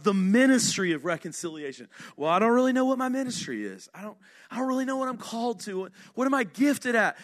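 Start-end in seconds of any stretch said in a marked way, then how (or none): 2.2-7.2 quick, fretful asking, a light hint of a puzzled believer; unsure churchgoer. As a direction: rattle off the doubts like a confused churchgoer. Voicing a confused churchgoer.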